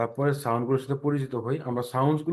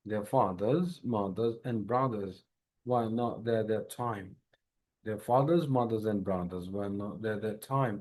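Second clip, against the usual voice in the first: slow drill; 3 semitones lower, much slower than usual. Shown as a demonstration. Teacher repeating the sentence for practice. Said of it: "উচ্চারণটা করবেন".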